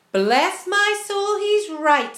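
high, loud, drawn-out realisation; astonished exclamation. A narrator's reading. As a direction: exclaim in shocked agreement. Grasshopper alarmed at coming crash.

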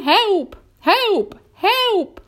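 high cries, each rising above the last; imitated plaintive calls, climbing in pitch; calling for help. Miss Spider imitates her trapped grandmother calling, high and pleading. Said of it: "we could hear her calling to us".

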